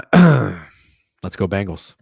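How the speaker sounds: loud, slow drawn-out cheer; team cheer. Real, not acted. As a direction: stretch it out like a chant.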